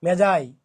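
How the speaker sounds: মেজাই said short and firm; repeat correct pronunciation. Shown as a demonstration. Teacher answering his own question, firm. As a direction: clip out মেজাই clearly. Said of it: "কি এটা?".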